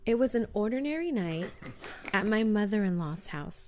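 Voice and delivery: measured campfire-tale reading; spooky story narration. A narrator's reading. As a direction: set the scene for a scary story. Reads scary story.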